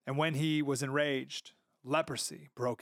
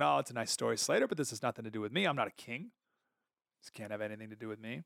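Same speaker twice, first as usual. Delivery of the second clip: imagined listener; 4 semitones lower, 3 dB quieter, faster than usual. Retold or imitated. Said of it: "Now you're thinking".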